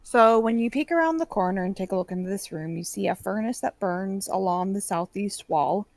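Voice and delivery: steady descriptive read-out; game master scene-setting. Acted. Game master describing glass workshop to players, narrating. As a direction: lay out the room for players.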